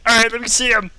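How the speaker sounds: high loud squeaky elf; tiny elf voice. Acted.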